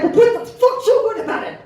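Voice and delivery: mock surly snap. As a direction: play the rude guy over the top. Rude black guy retorts.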